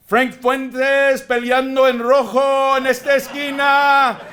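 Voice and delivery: high, booming ring announcer call; slow, grand ringside introduction; lucha libre announcer. Pretend. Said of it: "I would say".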